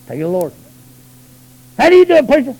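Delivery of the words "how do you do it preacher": mock pleading churchgoer. Mocking churchgoer asking preacher.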